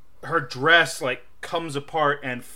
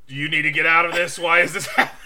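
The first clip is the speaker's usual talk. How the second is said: inner voice; 3 semitones higher, 5 dB louder, faster than usual. Retold or imitated. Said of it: "brain going".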